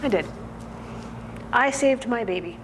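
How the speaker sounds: halting, emotional confession with long pauses; acted defiance, pitch jumping then falling; defiant prisoner's monologue. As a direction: play a mother insisting, with long silences between phrases. Prisoner's climax, saved her baby herself.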